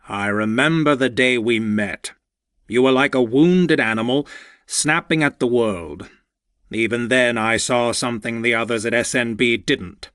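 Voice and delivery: lightly voiced fond older mentor; a hint of a proud old boss, heartfelt; older man voice. Walter, older mentor, speaks to Lucky.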